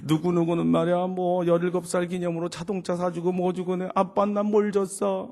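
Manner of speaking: 울먹임을 살짝 흉내 낸 높은 하소연; 서럽다는 듯 쉬지 않고 늘어놓는 딸 시늉; 울며 대드는 딸. Retold or imitated. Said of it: "막 울기 시작하면서". (울먹이며 따지는 시늉)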